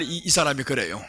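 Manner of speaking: usual speaking voice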